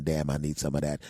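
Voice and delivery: low, appreciative aside; admiring desire. Shown as a demonstration. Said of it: "Be thinking".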